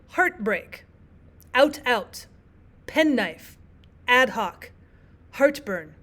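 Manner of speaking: "heartbreak", "out, out", "penknife", "ad hoc", "heartburn" with equal stress on both syllables; spondaic stress. Shown as a demonstration. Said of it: "all syllables have equal stresses on them".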